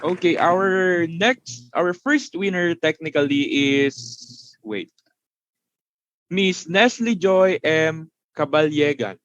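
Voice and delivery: slow, drawn-out winner reveal; hyped giveaway announcement. Acted. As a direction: stretch out the name for suspense. Announcing raffle winner name.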